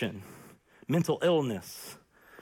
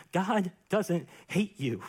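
gently. Retold or imitated. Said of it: "and he said gently".

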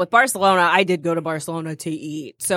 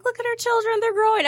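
mock proud family card; 14 semitones higher than usual. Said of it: "it's just like".

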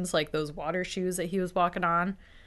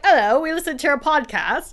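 higher, louder formal greeting; mock estate lawyers; 7 semitones higher, 6 dB louder than usual. Da Vinci estate calling the hosts, mock formal voice. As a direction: sound like stern official callers. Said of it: "They're like".

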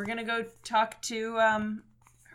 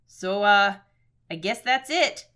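lightly Minnesotan, hesitant; a touch of Fargo accent; Minnesota accent; 5 dB louder, slower than usual. Acted. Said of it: "supposed to be doing a Minnesota voice".

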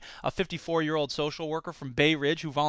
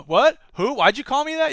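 confused surprise; 8 semitones higher, 6 dB louder than usual. Retold or imitated. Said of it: "they immediately start going".

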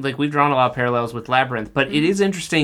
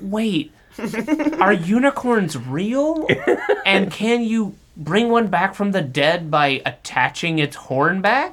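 lightly voiced curious child, higher pitch; child's question; 5 semitones higher, slower than usual. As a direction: ask it like a puzzled kid, drawn out. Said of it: "What questions do you think your children would ask".

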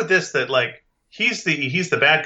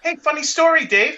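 high cartoon alien bird, Venusian accent; comic high-pitched Venusian creature; 10 semitones higher than usual. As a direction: pipe up in a squeaky Venusian accent. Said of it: "That's a Venusian accent".

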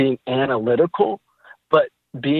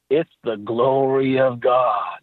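Bob; slower than usual. Retold or imitated. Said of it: "And he goes".

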